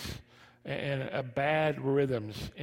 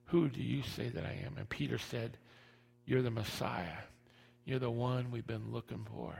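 soft, intimate preaching; quiet; 2 semitones lower, 6 dB quieter than usual. Acted. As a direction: hush down for the key moment. Softer retold scene.

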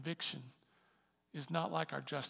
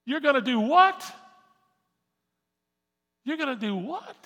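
incredulous; 9 semitones higher, 14 dB louder than usual. Acted. Mock incredulous friend.

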